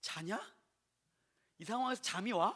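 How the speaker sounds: dumbfounded, incredulous, exasperated disbelief. Asking someone how they can sleep in this situation, incredulous, exasperated. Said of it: "어이가 없는 거예요".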